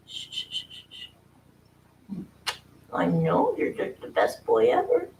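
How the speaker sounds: soft hushing whisper. Real, not acted. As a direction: hush him gently, breathless. Hushing the purring cat.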